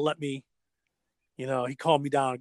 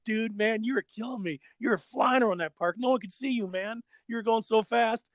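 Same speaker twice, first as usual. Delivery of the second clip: higher-pitched imitation of an impressed skater; impressed praise; 5 semitones higher than usual. Tony praises the young skater at the table, impressed. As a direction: gush in admiration, pitched up.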